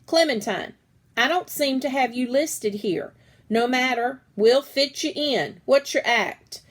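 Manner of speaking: loud teacher call across hall; booming teacher. Acted. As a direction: project to the whole auditorium. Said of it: "she yelled so loud".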